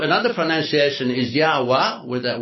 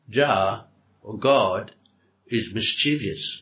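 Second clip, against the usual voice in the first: Jah or God said slowly, then is mischievous dropped low; slow stressed phrase; 4 semitones lower, slower than usual. Shown as a demonstration. Showing the congregation the troubling meaning, slow and deliberate. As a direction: lay out each word slowly to land the point. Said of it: "if we use the same logic".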